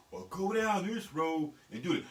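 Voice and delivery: mild, orderly polite instruction; understated mockery of polite speech; mock proper talk. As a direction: imitate a proper speaker giving directions. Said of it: "Y'all do that proper shit".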